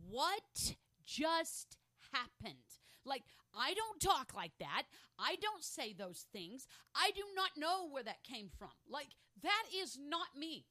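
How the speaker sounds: loud, drawn-out incredulous outburst; bewildered disbelief. Acted. Replaying someone walking away from a conversation, bewildered and emphatic. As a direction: act baffled, leaning hard on each word. Acts out shock at own words.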